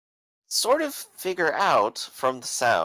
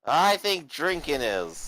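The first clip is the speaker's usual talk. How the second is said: put-on rowdy drunk; 5 semitones higher, slower than usual.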